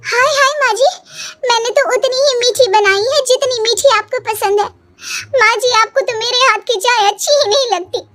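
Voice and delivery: high, wailing mock-tearful complaint; whiny fake hurt. Daughter-in-law whines to mother-in-law about her tea, mock-tearful. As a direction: play the wronged bride with a put-on whimper.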